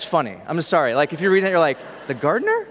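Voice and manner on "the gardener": incredulous. Retold or imitated. Reader reacting to the text.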